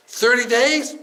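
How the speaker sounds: high, pleading question; hopeful bargaining. Retold or imitated. Groom haggling with the angel of death, pleading. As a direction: raise the pitch in a hopeful offer.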